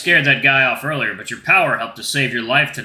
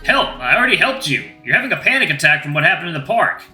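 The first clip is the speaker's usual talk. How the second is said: louder, higher, taken aback; indignant protest; 6 semitones higher, 4 dB louder than usual. Acted. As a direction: insist you already helped. Werewolf protests the accusation.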